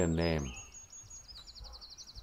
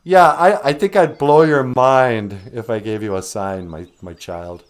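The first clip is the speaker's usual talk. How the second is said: voice of the Creator; 5 dB louder than usual. Pretend. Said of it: "And he's like".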